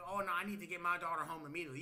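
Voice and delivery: quick, mildly urgent mock parent; hurried concern. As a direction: rattle it off as a worried mom would. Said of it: "her immediate response would be like".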